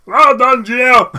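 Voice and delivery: loud, high silly cheer; hammed-up shouted pat on the back; mock congratulatory shout. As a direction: yell it in over-the-top self-praise.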